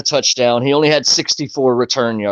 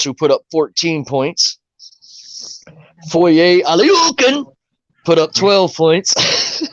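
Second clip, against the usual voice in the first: recap read. Acted. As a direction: read the stats like a sportscaster. Reads the fantasy recap aloud.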